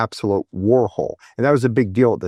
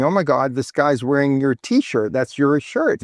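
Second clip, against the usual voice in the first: imitated excited scream; 4 semitones higher than usual. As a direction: retell the sister's screaming, pitched up, without really shouting. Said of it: "she starts screaming".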